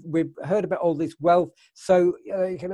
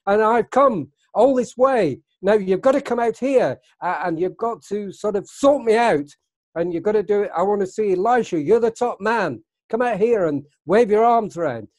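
raised, higher voice, demanding to be seen; retold scream; 4 semitones higher, 4 dB louder than usual. Naaman demanding the prophet come out, mock yelling. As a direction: shout it like a proud general who feels snubbed. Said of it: "You can hear him screaming out".

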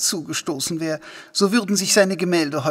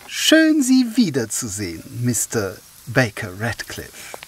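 effusive greeting; 3 semitones lower than usual. Acted. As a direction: gush the hello with put-on delight. Host greets unwelcome visitors.

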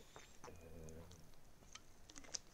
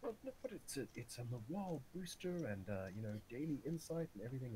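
higher-pitched, lightly voiced officer; retold officer; 5 semitones higher than usual. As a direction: play a defensive officer, pitch easing down. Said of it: "And he goes".

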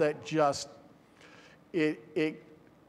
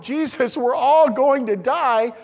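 panicked disciples; 7 semitones higher, 8 dB louder, slower than usual. Acted. Disciples crying out in the storm.

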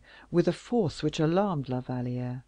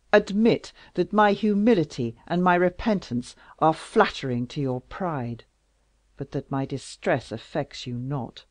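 loud, wounded royal reproach; bitter king; 4 dB louder than usual. Acted. King accusing Louise of fleeing him, loud. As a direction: accuse her with hurt pride. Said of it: "cried Louis".

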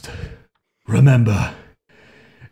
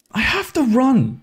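indignant whine; 13 semitones higher, slower than usual. Real, not acted. Frustrated by game rule.

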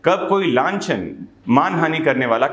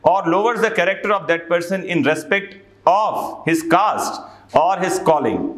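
slow, measured legal reading; slow statute reading; much slower than usual. Acted. Teacher reading the statute to students slowly. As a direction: read the law out word by word.

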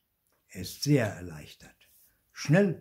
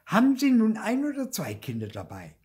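hissing; 9 dB louder than usual. Acted. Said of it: "zischt sie".

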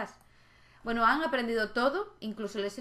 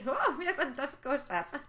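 delighted little one; 5 semitones higher, slower than usual. Pretend. Voicing happy little sim.

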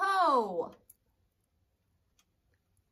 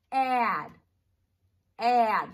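"Add" said loud and clear; loud demo word; 8 dB louder than usual. Shown as a demonstration. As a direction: say "Add" loudly to model it. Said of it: "Can you say that".

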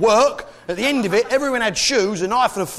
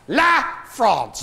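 "La France" said in a French accent, La stressed and higher; mock French; 5 semitones higher than usual. Shown as a demonstration. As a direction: give a haughty French "La France". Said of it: "as it prefers to call itself".

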